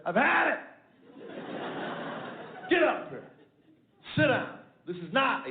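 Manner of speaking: the fed-up father calls his son in; stern dad outburst. Retold or imitated. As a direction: bark it like a father at his limit. Dad lays down the law.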